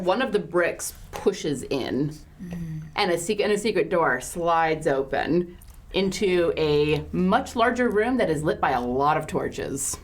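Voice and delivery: slow, drawn-out scene setting; game master narration. Acted. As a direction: unveil the secret room slowly. Game master describes hidden room.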